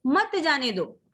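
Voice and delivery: मत जाने दो as a separate phrase; मत leaned on, phrase falling to दो; set off by pause. Shown as a demonstration. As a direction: start afresh on मत after the break. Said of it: "फिर हमें थोड़ा सा रुकना है".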